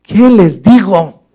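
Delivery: slow, drawn-out worried plea to God; anxious plea. Retold or imitated. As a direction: ask it slowly, as if at a loss. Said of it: "Moisés estaba así".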